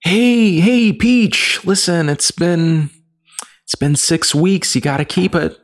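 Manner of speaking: high, loud, hammed-up bro voice; Chris Pratt's Mario. Mocking the movie's Mario in a high, loud bro voice. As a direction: pitch up and shout like a dude-bro Mario. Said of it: "It's gonna be like".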